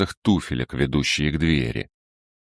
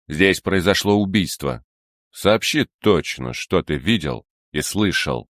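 curt; 2 semitones higher than usual. Acted. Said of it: "отрывисто произнёс".

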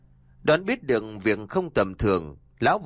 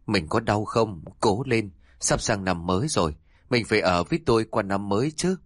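slightly choked. Acted. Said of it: "Giọng nói có chút nghẹn ngào".

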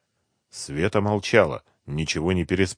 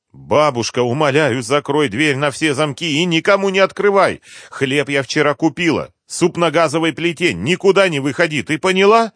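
higher, louder, pressing warnings to grandma; urgent granddaughter; 9 semitones higher, 7 dB louder than usual. Acted. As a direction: drive every order home, don't let her argue. Pleading urgent instructions.

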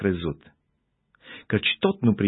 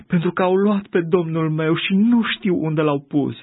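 higher and louder, grief-stricken plea; weeping reply; 7 semitones higher, 4 dB louder than usual. A narrator's reading. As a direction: answer through tears of loss. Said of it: "ședea afară lângă mormânt și plângea". (răspuns plângând, mai sus și mai tare)

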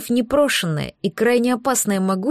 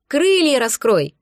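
shouting; 4 semitones higher, slower than usual. Acted. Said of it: "крикнула Оливия".

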